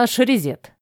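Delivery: plain reading voice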